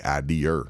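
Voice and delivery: IDEA pronounced as "idear"; R on the end. Retold or imitated. Quoting how some people say it, IDEA ending in R. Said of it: "With the R".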